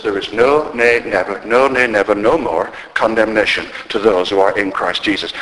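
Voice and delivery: firm, insistent stress on each "no, nay, never"; preacher piling up "no" and "never"; emphatic. Retold or imitated. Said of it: "That's how emphatic it is".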